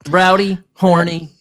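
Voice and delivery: slow, drawn-out mock tagline; playful announcer-style tagline; mock podcast intro. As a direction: spread the words out like a show intro. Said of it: "sometimes I'll just randomly say it".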